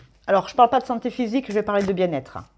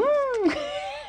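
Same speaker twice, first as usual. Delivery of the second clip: high laugh; 4 dB quieter than usual. Real, not acted. Laughing at her own remark.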